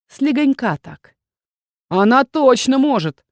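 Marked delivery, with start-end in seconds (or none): 1.9-3.2 hollered support. Acted. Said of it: "проорал Иррой".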